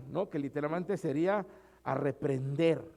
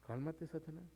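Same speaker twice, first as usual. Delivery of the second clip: softer repeat of cálmate, Satanás; soft calm rebuke; 12 dB quieter than usual. Retold or imitated. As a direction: hush them down gently. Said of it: "es válido decirle". (repetir "cálmate, Satanás" más bajo y suave)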